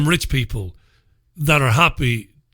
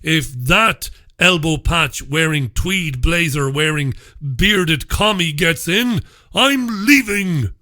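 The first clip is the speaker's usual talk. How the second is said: mock rich man; slower than usual. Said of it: "lead the cries of".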